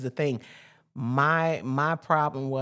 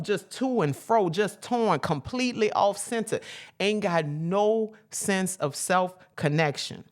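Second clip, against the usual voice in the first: rolling, repetitive preacher's list, pitched up; preaching; 7 semitones higher, 3 dB louder than usual. Real, not acted. Preacher listing how people run wild, in a rolling cadence. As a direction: pile up each phrase in a preacher's cadence.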